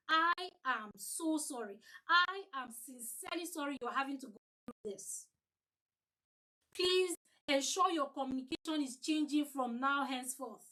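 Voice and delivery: caring apology to an upset customer; personal, heartfelt apology. Shown as a demonstration. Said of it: "you must personalize your apology".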